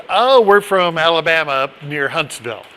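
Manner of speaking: lightly put-on Southern accent; retold reply in a neighbor's Alabama accent. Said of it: "their accent gave them away".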